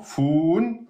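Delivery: foun held for just two beats; two-beat hold. Shown as a demonstration. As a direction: give foun a moderately long vowel, then stop on n. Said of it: "faire un deux temps".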